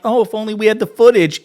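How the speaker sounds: high, loud mocking imitation of a smug host. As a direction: ham up the smugness, sing-song and high. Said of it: "You hear how smug Will Cain is?".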